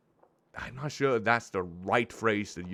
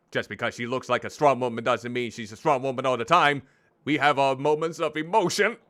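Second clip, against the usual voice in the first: indignant defence; 3 semitones higher, 4 dB louder than usual. Real, not acted. Indignant defence of grieving character.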